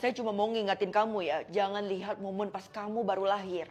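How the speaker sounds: a guard leaning in to give a hint; old security guard. Acted. Security guard figure voiced.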